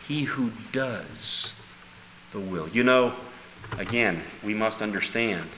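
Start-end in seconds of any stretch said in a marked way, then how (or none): 0.1-2.7 He who does the will, slowly and deliberately; slow emphasis. Shown as a demonstration. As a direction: spell out each word slowly. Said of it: "but he who does the will".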